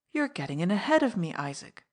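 mock plaintive complaint; a touch of put-upon whining; plaintively. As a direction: feign hurt, tongue in cheek. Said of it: "interrupted Jimmie Dale plaintively".

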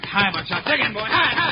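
high rising yells to a horse; yelling at horse. Acted. Urging horse at full gallop.

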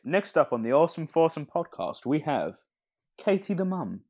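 podcast announcer intro voice; fighting game announcer. Shown as a demonstration. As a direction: announce it like a hyped show host. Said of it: "if Ben maybe just does, like, that announcer voice".

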